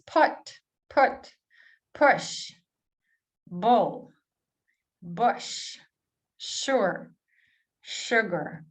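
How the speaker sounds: "Put", "push", "bull", "sugar" with a short lax u; short u words. Shown as a demonstration. Teacher reading short u words for learners. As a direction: keep the u short and relaxed. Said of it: "let's see these words".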